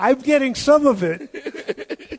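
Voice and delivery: teasing, slowed down, high-pitched.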